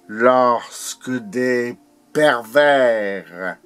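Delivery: slow, broken poetic phrasing; deliberate, held-back recitation; measured declamation. Acted. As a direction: recite it slowly with weighty pauses. Poem line, first measured take.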